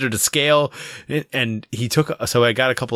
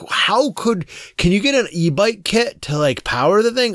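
a higher, lightly voiced eager kid; imitating the eager son; 8 semitones higher than usual. Dad imitates his son asking for an e-bike kit, eager higher voice. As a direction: lift the pitch, like a kid pleading for a gadget. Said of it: "my son was like".

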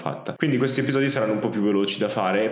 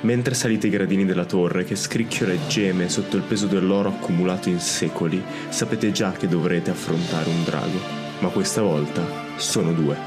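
story narration; 2 semitones lower than usual. Acted. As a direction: set the scene like an epic tale. Fantasy intro narration over music.

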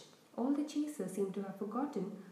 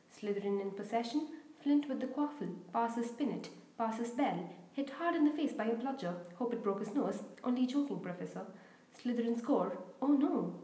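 lively sports commentator calling the play; eager Quidditch commentator; match commentator. Acted. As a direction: call the match like a schoolboy announcer. Lee commentates.

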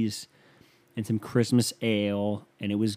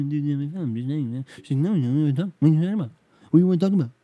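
put-on higher, louder indignant girl voice; mock girlfriend; 5 semitones higher, 6 dB louder, much faster than usual. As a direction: protest like the defensive girlfriend. Mimicking girlfriend's denial.

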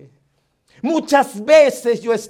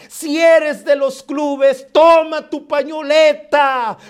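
rally them out of their tears; full-force preaching; 2 semitones higher, slower than usual. Acted. Preacher urging mourners to stand up and serve, forcefully.

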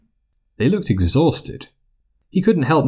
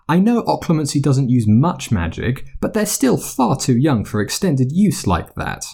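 scolding matron; 4 semitones higher than usual. Acted. Poppy scolds the headmaster.

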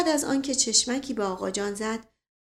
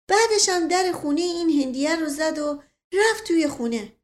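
a slightly higher, lightly voiced village servant, chatty; old servant Mashqasem; 5 semitones higher than usual. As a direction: tell it like a simple old servant who loves a tale. Servant Mashqasem tells his story.

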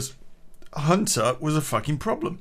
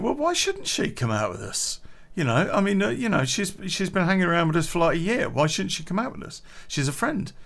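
higher mock girlfriend pleading; imitating girlfriend; 6 semitones higher than usual. Teller mimics girlfriend defending the ex, higher imitation. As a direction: raise the pitch to play the girlfriend defending her. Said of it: "my girlfriend's going".

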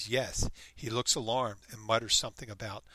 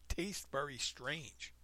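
high-pitched exclamation; 3 semitones higher, 5 dB quieter, much slower than usual. Retold or imitated. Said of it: "I made a high-pitched noise and said".

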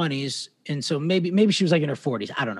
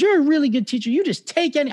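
imitating sad Lynn; 11 semitones higher than usual. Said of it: "she's so sad".

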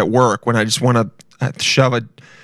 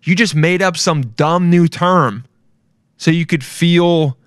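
higher, slower, fed-up rant; exasperated rant; 5 semitones higher, slower than usual. Real, not acted. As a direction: let it out, annoyed. Ranting at young people.

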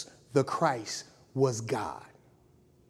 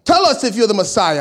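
put-on loud high priest with an English accent; stagey English-accented interrogation; 3 semitones higher, 8 dB louder than usual. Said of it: "the high priest has an English accent".

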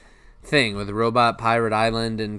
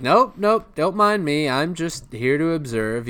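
high put-on Squidward; 6 semitones higher than usual. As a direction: nonchalant cranky voice. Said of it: "He's like".

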